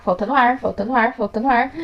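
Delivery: imitating gasping for air; re-enacted breathless whimpering; acted breathlessness. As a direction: repeat it as if short of breath. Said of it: "Tava assim, ó".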